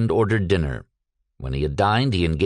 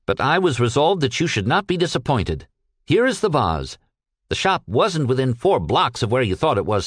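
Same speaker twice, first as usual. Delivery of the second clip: higher-pitched, emphatic character voice; earnest, weary Peck; 3 semitones higher than usual. Acted. Peck reporting to his boss about the vase, earnest and emphatic. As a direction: give an aggrieved, dutiful account.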